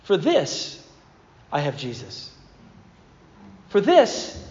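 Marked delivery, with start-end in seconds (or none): 0.0-2.3 mantra. Shown as a demonstration. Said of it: "It was a mantra for his life".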